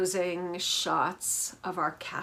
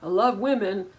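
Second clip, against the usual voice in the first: mock Michael; 2 semitones higher, 4 dB louder than usual. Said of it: "he's like".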